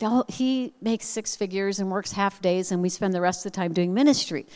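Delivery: lightly voiced sugary friend; imitated sweet friend. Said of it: "she said so sweetly".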